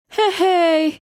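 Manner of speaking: sharp high call for attention; loud exclaim. A narrator's reading. Lucy calling out across the church pews, loud. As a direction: call out loudly to turn heads. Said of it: "Lucy exclaimed loudly".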